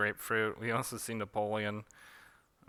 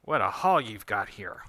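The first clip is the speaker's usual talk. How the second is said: mock pirate; 6 dB louder than usual. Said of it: "pretending to be a pirate".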